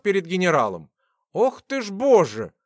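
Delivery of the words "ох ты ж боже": a mild startled cry of alarm; exclaiming. Acted. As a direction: gasp it out, frightened. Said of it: "воскликнула она".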